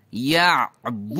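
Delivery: یعبدو slow, throat tightened after the first vowel; squeezed ain. Shown as a demonstration. Teacher extends the drill like yani, یعبدو squeezed mid-throat. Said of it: "یعنی کی طرح".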